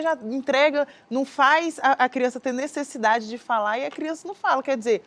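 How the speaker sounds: usual speaking voice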